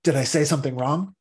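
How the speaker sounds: mock anxious ego. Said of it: "might say".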